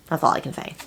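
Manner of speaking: a hushed, teasing aside; secretive whisper. Real, not acted. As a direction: whisper it like a secret you can't tell. Secretive repeat of her line.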